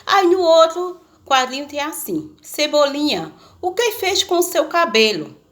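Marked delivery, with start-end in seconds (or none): 2.4-5.4 comic-strip question read in mild astonishment, pitched up; astonished question. Acted. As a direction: ask it as if taken aback by the sight. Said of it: "ainda está de muito espanto".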